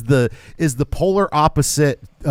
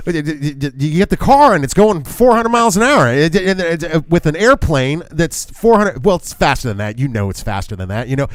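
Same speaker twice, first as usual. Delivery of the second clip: Biden impression. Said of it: "he's Reagan... but on meth".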